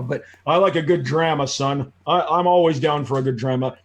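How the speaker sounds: put-on "drama" said as "dramma", flat a, Midwestern accent; mild Midwestern dad voice, "drama" with a flat a. Son retelling dad's Midwestern "drama" at the car, mild Midwestern accent. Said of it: "these Midwestern, like, accents".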